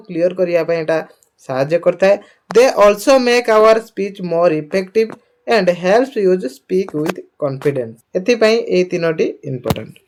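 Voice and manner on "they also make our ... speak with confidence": reads English very slowly; slow dictation reading. Acted. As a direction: spell it out slowly for students.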